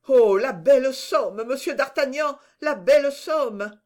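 high, marvelling exclamation; awed delight. A narrator's reading. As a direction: gasp over the fortune, stretching the last words. Servant marvels at sudden fortune.

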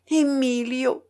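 put-on young woman's cry. A narrator's reading. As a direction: call the name out with some urgency. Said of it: "cria la jeune fille". (cri retenu de jeune fille)

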